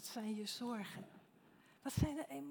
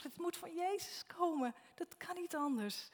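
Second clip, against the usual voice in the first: excited certainty; 7 semitones higher than usual. Acted. Same line, said again with excitement.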